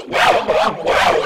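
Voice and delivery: stiff robot voice, reversed; robot voice backwards. Pretend. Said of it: "in my best robot voice backwards".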